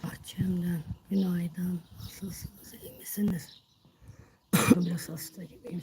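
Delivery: hoarse, barely there voice; sick voice straining to speak; strangled voice. Real, not acted. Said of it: "sesim çıkmıyor".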